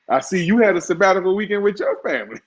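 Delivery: teasing, laughing and quick; chuckling through a tease. Real, not acted. Teasing co-host about family weekend.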